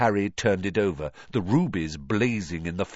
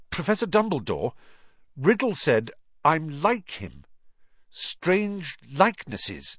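put-on higher, anxious boy's voice; young Harry voice; 8 semitones higher than usual. A narrator's reading. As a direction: blurt it out like a worried boy.

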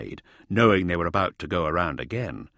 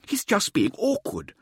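Mirza's voice; 14 semitones higher than usual. A narrator's reading. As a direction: relish every word like a showman. Narrator voicing Mirza.

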